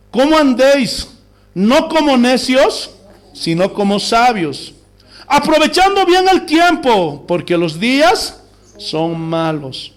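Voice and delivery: slow, measured reading, phrase by phrase; scripture reading. Real, not acted. Preacher reading Ephesians to the congregation, slow and solemn. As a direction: proclaim the verse slowly with weighty pauses. Reads the Bible passage aloud.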